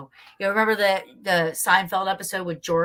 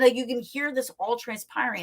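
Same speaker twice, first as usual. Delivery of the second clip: ordinary talk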